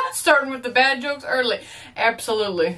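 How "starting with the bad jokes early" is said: laughing repeat. Real, not acted. Repeating the movie line while laughing.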